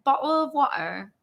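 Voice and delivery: another amateur stab at British; badly faked British accent; attempted British accent. Shown as a demonstration. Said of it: "Okay, British. The only thing I can try".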